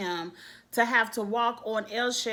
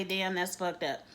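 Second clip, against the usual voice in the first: lower, unmoved imitation of husband; unemotional; 4 semitones lower, 4 dB quieter than usual. Showing how husband reacts to bad news, unemotional. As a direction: say it as evenly as small talk. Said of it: "the same way he can say cool".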